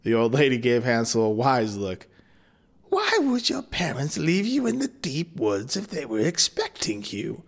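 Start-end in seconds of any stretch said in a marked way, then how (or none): 2.9-7.4 a hint of the crone; knowing old witch asking. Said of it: "she asked".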